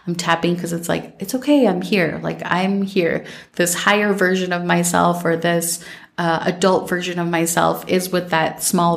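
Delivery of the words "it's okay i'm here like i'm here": self-soothing. Retold or imitated. Soothing herself while tapping.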